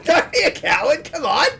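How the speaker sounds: high, loud goading shout; taunting yell. Real, not acted. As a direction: egg him on, loudly. Goading the friend.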